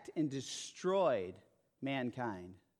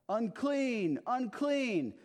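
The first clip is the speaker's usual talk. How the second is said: mock shout, pitched higher and louder; calling out unclean; 9 semitones higher, 3 dB louder, much slower than usual. Leper warning passersby as he walks, pitched high mock shout. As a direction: cry it out like a leper warning others away. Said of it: "you'd have to shout out".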